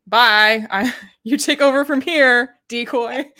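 loud, high and laughing, tossing off a farewell; mock breezy goodbye. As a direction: wave the decoy off cheerfully through a laugh. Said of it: "she was like".

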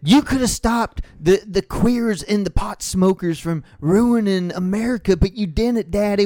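pleading as a Southern kid, hammed up a touch; mock Southern kid. Mocking Paul Ryan's kid, a hint of Southern child. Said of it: "I'm doing Southern".

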